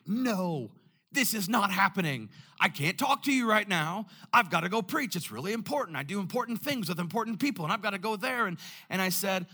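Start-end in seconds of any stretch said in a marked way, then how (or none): 0.1-8.5 panicked refusal. Retold or imitated. Frantic inner refusal to farmer.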